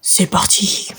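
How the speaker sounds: hushed c'est parti; a whispered start to sneaking in the dark. Real, not acted. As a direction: whisper it so nothing hears.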